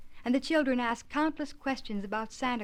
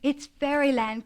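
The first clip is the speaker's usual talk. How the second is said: louder, higher cry of delight; overjoyed cry; 5 semitones higher, 9 dB louder than usual. Acted. Little Davy seeing the Christmas tree, crying out with joy. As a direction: burst out with joy like a small boy. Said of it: "cried little Davy, out of his wits with joy".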